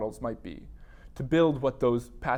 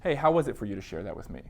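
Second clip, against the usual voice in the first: gentle therapist debrief. Shown as a demonstration. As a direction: warmly thank the client for sharing. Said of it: "doing just that".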